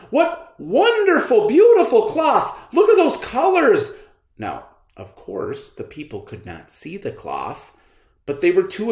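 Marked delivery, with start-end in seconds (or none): 0.1-3.9 high, loud excited praise; crowd cheering. Acted. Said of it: "the people cried".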